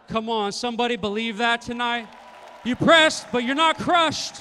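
high, full-force preacher shout; rallying shout. Real, not acted. Preacher rallying the congregation to believe, full shout. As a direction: shout it with rising conviction.

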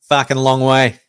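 lightly voiced blokey Aussie statistician; casual, hint of a put-on Aussie character; Australian statistics guy. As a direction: answer like a laconic local bloke. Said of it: "Where's the voice?".

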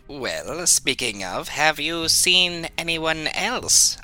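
measured greeting to a small creature; lightly in character, drawing out the question; lightly voiced party spokesman.

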